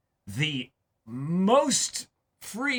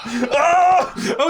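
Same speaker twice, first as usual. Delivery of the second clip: sudden oh; 13 semitones higher, 7 dB louder than usual. Real, not acted. Sudden remembering, exclaims.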